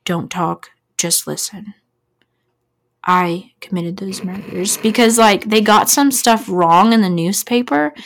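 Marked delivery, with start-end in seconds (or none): 0.1-4.8 eerily calm. Retold or imitated. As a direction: imitate a caller calmly confessing, pausing between phrases. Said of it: "eerily calm".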